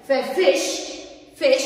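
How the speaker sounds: "فيش" in one unbroken burst; one-syllable demo. Shown as a demonstration. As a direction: say "فيش" as a single beat, no break inside. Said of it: "كسر في لفظ الكلمة، يعني تخرج، آه، مخرج واحد". ("فيش" بمقطع واحد دون كسر)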